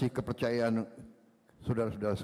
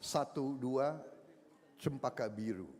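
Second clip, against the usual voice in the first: reciting a pantun. Real, not acted. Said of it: "Pantun terakhir".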